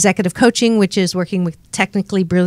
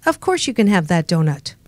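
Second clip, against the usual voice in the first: bratty inner voice. Acted. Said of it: "another voice called the brat".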